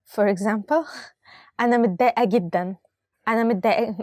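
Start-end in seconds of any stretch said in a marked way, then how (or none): 1.6-4.0 giggling through the upset sentence; can't keep a straight face, laughing as she says it. Shown as a demonstration. Teacher tries to sound upset but laughs. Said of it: "I cannot say it with a smiling face".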